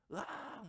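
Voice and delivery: a restrained imitation of a madman's cry; imitated scream. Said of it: "막 이런 소리를 질렀는지도 몰라요".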